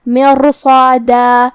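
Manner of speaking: مرصادہ with ر, ص and the long alif heavy and full, said very slowly; heavy letters. Shown as a demonstration. Teacher shows the heavy letters, slow and full. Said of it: "تین حروف کو بھاری آواز میں پڑھیں گے".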